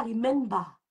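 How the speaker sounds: "remember" said as "ree-MEN-ba"; French-accented "remember" ending in an open "ba"; mispronounced "remember". Shown as a demonstration. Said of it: "on ne dit pas".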